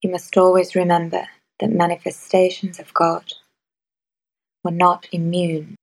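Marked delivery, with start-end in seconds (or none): none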